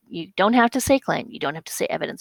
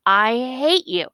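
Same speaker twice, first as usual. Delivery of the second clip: slow, higher quoted yell; a restrained yell, words drawn out; mild mock yell; 4 semitones higher, 3 dB louder, slower than usual. Teacher quotes the yelled evidence, mild mock yell. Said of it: "she yelled".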